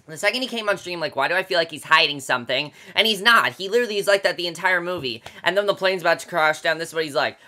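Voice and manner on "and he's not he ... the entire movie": ordinary delivery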